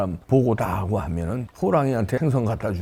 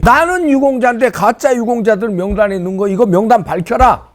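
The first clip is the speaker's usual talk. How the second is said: a real 5.18 merit holder shouting his demand, much higher and louder; indignant demand; 11 semitones higher, 10 dB louder than usual. Retold or imitated. A genuine merit holder publicly demands the list, in a loud, high shout.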